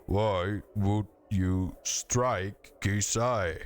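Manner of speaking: slow, ponderous stone voice; boulders grinding voice. Acted. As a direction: speak like grinding rock, slowly. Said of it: "a voice like two boulders grinding together".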